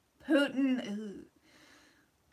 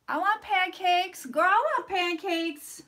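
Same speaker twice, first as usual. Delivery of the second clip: campy drag queen; 5 semitones higher, slower than usual. Acted. Campy slow reading of viewer comment.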